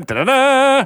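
rising, loud ominous sting; dramatic dun dun. Pretend. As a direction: sing a suspense sting.

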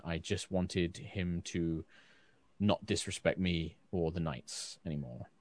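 hesitant officer seeking reassurance; reserved knight captain. Acted. Captain character, quieter.

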